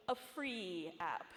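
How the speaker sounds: "free" drawn out slowly before "app"; slow, pointed emphasis on "free"; stress on "free". Real, not acted. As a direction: linger on the word "free" for emphasis. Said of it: "notice my emphasis on free".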